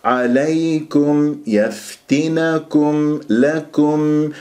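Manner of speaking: عليكم، يفتنكم، لكم drawn out with small rounding on كم; light kum. Shown as a demonstration. Teacher corrects the endings, slow recitation with light كم. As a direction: keep each كم thin, held on the meem. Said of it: "لا تكبر قطر التكوير".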